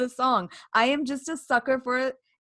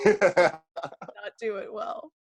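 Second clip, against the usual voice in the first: slow drawl; much slower than usual. Acted. Slow ending bit.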